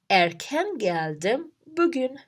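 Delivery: slow example with "Erken" as the emphasized word; stress on Erken. Shown as a demonstration. Teacher shows learners a fronted word for emphasis, stressing "Erken". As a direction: lean on "Erken" at the front, slowly. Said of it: "the emphasis here is on erken".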